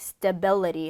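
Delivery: stability, middle syllable bil stressed. Repeating the word stability aloud, stress on middle syllable bil. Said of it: "중간에 강세 들어가는 거".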